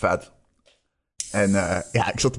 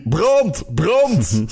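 mock fire shout; 6 semitones higher than usual. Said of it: "schreeuwde hij".

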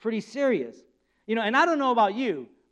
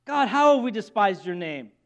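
playing innocent; 2 semitones higher than usual. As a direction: act wide-eyed innocent. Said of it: "they're playing innocent".

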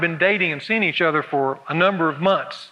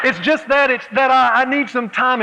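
higher, halting tearful voice; tearful Elaine; 6 semitones higher, 3 dB louder than usual. Acted. Elaine telling Roger she needs time, haltingly tearful. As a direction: stumble over the words, near tears. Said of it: "Elaine says".

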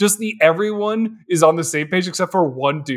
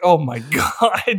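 guilt laughing; slower than usual. Retold or imitated. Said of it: "just guilt laughing".

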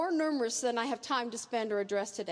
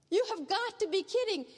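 incredulous; 5 semitones higher than usual. Acted. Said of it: "incredulously say".

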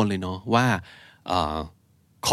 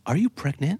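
nosy question; 5 semitones higher, much slower than usual. Retold or imitated. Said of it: "say it like".

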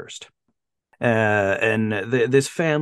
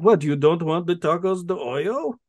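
higher, lightly put-on dad voice; mock puzzlement from an oddball dad; weird dad; 6 semitones higher than usual. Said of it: "It's like".

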